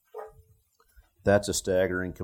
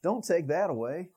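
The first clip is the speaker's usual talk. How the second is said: raised-pitch mock pleading; 7 semitones higher than usual. A believer begging God to keep his Ishmael, higher pleading. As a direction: beg like a worried believer. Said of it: "done the same thing".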